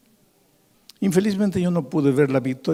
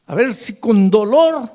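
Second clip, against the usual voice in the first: imitating crying plea; 9 semitones higher, 8 dB louder, slower than usual. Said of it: "llorando ese pobre hombre me dice".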